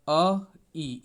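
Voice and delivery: ए said as "अ, ई", two separate sounds; ए split into two vowels. Shown as a demonstration. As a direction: break the vowel apart: अ, then ई. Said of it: "इस तरह से प्रयोग करेंगे".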